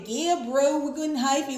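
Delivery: lightly put-on California bro talk; mock California accent. Mocking how Californians talk, light California accent. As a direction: imitate a Californian greeting a bro. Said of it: "You from California".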